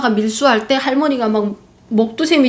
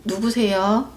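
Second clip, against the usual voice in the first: demure; 5 dB quieter, slower than usual. Retold or imitated. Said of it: "조신하게".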